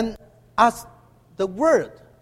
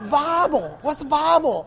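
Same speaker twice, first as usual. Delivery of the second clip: laughing; 8 semitones higher than usual. Real, not acted. Laughing at a misheard accent.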